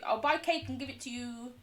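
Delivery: long drawn-out, pleading please; whiny mock begging. Streamer promising cake for fortune, wheedling. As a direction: beg sweetly, stretching the last word.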